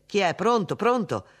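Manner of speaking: loud, high insistent hello; urgent calling. A narrator's reading. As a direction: press a silent caller to answer. Urgent questions to silent caller. (richiamo insistente, a voce alta)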